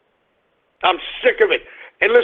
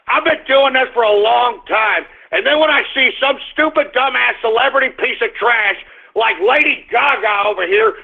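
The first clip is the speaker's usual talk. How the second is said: raised, heated ranting voice; angry rant; 5 semitones higher than usual. Real, not acted. Vlogger fuming at a celebrity protester, angry rant. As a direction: work yourself up into a fuming tirade.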